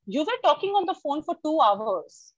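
mock-scolding about the length of the call; accusing parent. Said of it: "parents always come to us and tell us".

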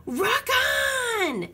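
high rising, whooped cheer; crew cheer. A narrator's reading. Pirate crew answering their captain, gleeful cheer. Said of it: "cheered the crew".

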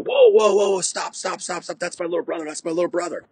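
high, urgent imitation of the brother calling off the beating; rapid-fire high-pitched mock alarm, starting loud; panicked voice. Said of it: "all of a sudden I hear this voice go".

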